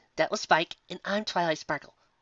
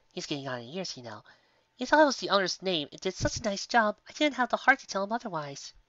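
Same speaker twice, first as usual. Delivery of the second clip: high, gentle motherly mare calling out; a kindly shopkeeper voice, lifted high; sweet baker mare; 3 semitones higher than usual. Acted. Baker calling to guests from the oven, sweet and high. Sweetie tells about the sign.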